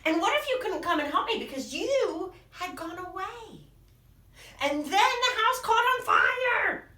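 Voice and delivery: mock anxious little monster; building worry. Little Monster's fears escalate.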